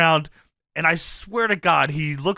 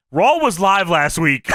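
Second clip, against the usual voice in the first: slow, louder, deliberate jab; pointed retort; 4 dB louder than usual. Retold or imitated. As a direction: lay each word down slowly to make a point. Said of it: "looks him in the eyes and says".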